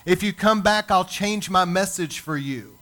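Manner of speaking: hammed-up pleading, dragging out the first plea; mock groveling.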